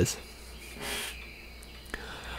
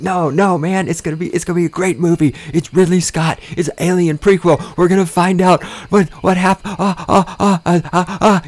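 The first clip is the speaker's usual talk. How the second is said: higher, fast, gushing into stammering uhs; giddy fanboy babble; 8 semitones higher than usual. Retold or imitated. Fanboy gushing to a theater owner, high and stammering. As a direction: gush like a fanboy who loses his words.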